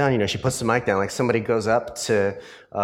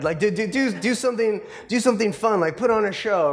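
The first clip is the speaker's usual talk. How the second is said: higher, eager mock pleading for a show; pushy fan demand; 9 semitones higher, faster than usual. Crowd on the ship begging the actor to put on a show, higher mock pleading. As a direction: egg him on like an impatient crowd. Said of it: "approaching him and saying".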